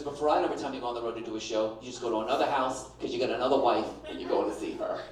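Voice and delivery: low, fast accusing voice; accusing wife. Retold or imitated. Wife accusing husband of second wife, low and fast. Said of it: "She goes".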